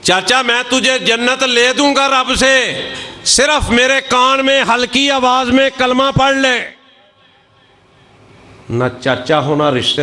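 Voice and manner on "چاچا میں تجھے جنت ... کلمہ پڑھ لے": a nephew's loving plea to his dying uncle; with love. Shown as a demonstration. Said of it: "پیار کے ساتھ".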